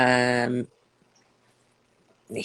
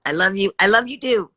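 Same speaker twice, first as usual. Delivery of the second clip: gushing; 5 semitones higher, 5 dB louder, faster than usual. Real, not acted. Answering viewers' messages.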